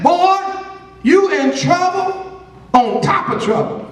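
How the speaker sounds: mama's scolding. Retold or imitated. Preacher imitating mama warning her boy, scolding. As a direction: warn the boy like his mama would. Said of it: "My mama used to talk like this".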